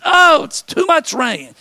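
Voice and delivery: exaggerated moan; mock whine. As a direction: grumble like a never-happy neighbour. Mock weather complaint.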